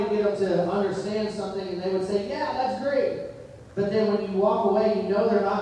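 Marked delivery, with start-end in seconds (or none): 2.3-3.3 higher, drawn-out mock agreement; too-easy agreement. Learner to instructor without really understanding, breezy mock agreement. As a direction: imitate someone breezily going along.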